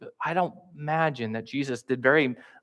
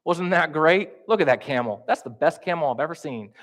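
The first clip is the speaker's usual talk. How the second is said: high, loud chummy banter; hammed-up casual small talk; mock casual small talk; 4 semitones higher, 5 dB louder than usual. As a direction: play a buddy chatting about the game. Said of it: "Jesus doesn't begin those conversations with".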